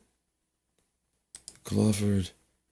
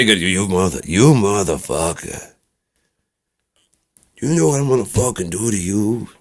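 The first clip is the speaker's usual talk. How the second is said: mock tough-guy threat; 3 semitones higher, 3 dB louder than usual. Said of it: "I don't know why I say".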